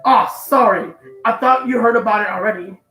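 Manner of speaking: sweet on top, sneering underneath; mean girl voice. Acted. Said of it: "a mean girl voice for Monica?".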